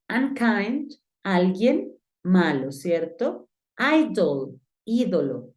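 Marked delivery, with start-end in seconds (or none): 0.1-0.9 "Unkind" said "an-kaind"; pronunciation model. Shown as a demonstration. Teacher reviewing homework words, "Unkind" as an-kaind. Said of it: "Te voy a pronunciar nuevamente las palabras". 3.8-4.6 "Idol" said "ai-dol"; "Idol" opens like "eye", clear O after; pronunciation model. Shown as a demonstration. Teacher reviewing homework words, "Idol" as ai-dol. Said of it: "Te voy a pronunciar nuevamente las palabras".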